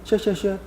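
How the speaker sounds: 시엇 chanted with a soft sh sound; 시엇 repeated quickly as shuh-ut; slushy sh for s. Shown as a demonstration. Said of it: "어떻게?".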